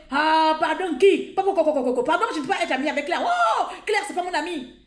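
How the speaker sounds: mocking quote. Mocking the woman who denies being her friend, mock snooty voice. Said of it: "tout le monde écoutait".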